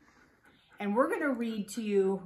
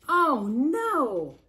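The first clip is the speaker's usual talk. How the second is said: loud storybook dismay; mock alarm; 3 semitones higher, 5 dB louder than usual. Reader tells children of a huge dinosaur, mock-alarmed cry.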